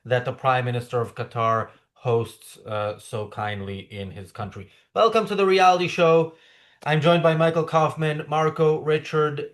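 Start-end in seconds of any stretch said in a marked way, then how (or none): 4.9-9.5 sarcastic game show host. Real, not acted.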